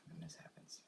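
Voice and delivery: sighing whisper; hushed, defeated aside; resigned whisper. Real, not acted. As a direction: let it fall out after a sigh. Muttered aside after a sigh.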